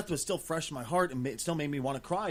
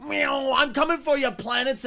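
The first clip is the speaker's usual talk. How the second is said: put-on high, loud, slow childish vroom-vroom shouting; hammed-up child at play; mock kid spaceship play; 10 semitones higher, 5 dB louder, much slower than usual. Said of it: "sitting in a box going".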